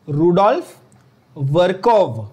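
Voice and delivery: रुडोल्फ वर्कोव said slowly with a hard k in वर्कोव; teacher modelling रुडोल्फ वर्कोव for students; pronunciation demo. Shown as a demonstration. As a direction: spell out रुडोल्फ वर्कोव carefully, k sound clear. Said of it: "pronounce properly करो बच्चों".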